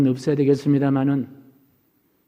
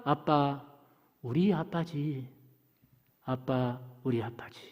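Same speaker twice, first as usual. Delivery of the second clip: very soft, low, slow imitation; parched daughter's voice; 4 semitones lower, 12 dB quieter, slower than usual. Revived daughter calling to her father, imitated faint and parched. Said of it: "목이 마른 딸 소리가 듣깁니다".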